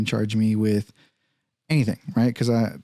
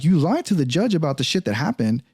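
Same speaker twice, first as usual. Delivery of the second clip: indignant accusation; 5 semitones higher than usual. Retold or imitated. Acted quarrel with the officer.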